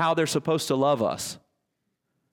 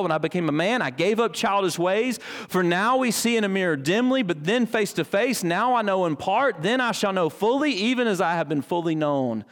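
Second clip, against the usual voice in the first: raised, measured Bible reading; scripture reading; 3 semitones higher than usual. Acted. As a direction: read the passage aloud with solemn lift.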